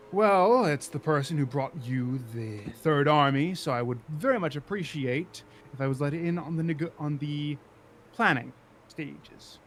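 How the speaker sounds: a hint of a politician pressing to be heard; self-important politician. Politician at the door asking to be let in, lightly self-important. Game master voices arriving Kane.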